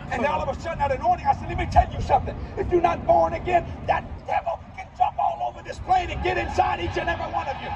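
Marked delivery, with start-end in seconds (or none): 1.5-7.7 preaching. Retold or imitated. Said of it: "by that time I'm preaching".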